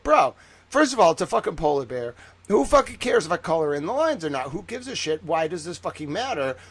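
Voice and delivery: mock-indignant protest; retold exasperation. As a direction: argue like a fed-up kid, retold. Retold protest to teacher over coloring.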